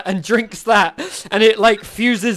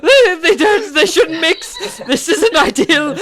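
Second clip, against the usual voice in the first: higher, fretful, slowed warning; panicked shopkeeper; 8 semitones higher, 3 dB louder than usual. Acted. Shopkeeper frets as her potions mix, high and anxious. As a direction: fuss over spilled potions. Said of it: "she's like".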